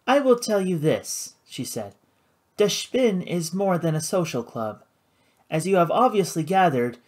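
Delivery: smooth and controlled, a touch up; lightly voiced poised hostess. Karina explaining her club, cool and poised.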